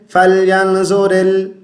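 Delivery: فَلْيَنظُرِ with a short plain n and no nasal hold; wrong, no ikhfa. Shown as a demonstration. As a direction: say فَلْيَنظُرِ quickly as "falyanzorel", unchanted. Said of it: "اخفا نہیں کرتے".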